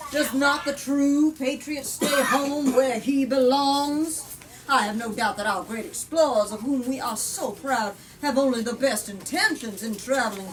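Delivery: reading a politician's speech from the book; firm, rhetorical read-aloud; story narration. A narrator's reading. Politician addressing Parliament, rhetorical speech read aloud.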